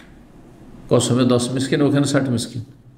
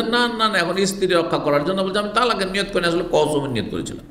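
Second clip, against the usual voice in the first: pleading husband's denial, pitched higher at the start; defensive husband; 5 semitones higher, faster than usual. Retold or imitated. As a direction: protest your innocence, then hurry the excuse. Husband denies talaq intent. (স্ত্রীকে রাখতে অজুহাত দেওয়া স্বামী, আত্মপক্ষ সমর্থন)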